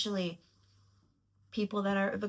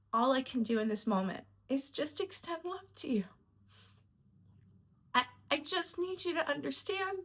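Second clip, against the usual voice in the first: higher, emotional plea; getting emotional; 5 semitones higher than usual. Real, not acted. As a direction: retell the apology while really welling up. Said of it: "I don't know why I'm getting emotional".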